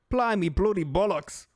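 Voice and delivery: mock British Blimey, bloody bollocks; British accent. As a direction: ham up an English swear. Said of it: "like in British English".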